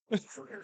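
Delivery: wheezing laughter; wheezy laugh. Real, not acted. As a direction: laugh until you wheeze. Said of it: "I'm wheezing".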